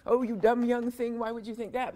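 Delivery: a lightly voiced sneering elder; mock condescension. Mocking a cruel skeptic who belittles the young, condescending. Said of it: "not cruel skepticism".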